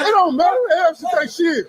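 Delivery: high, heated yell; angry shouting. Real, not acted. Defending a man from a racist remark, angry shouting. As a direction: shout them down in real anger.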